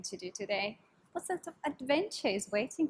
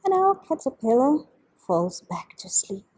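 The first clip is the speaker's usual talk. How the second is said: whisper; 8 dB louder than usual. Acted. Story whisper.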